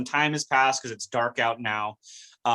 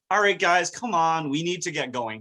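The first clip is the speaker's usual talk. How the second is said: rallying coach; 5 semitones higher than usual. Retold or imitated. Dean rallying the team.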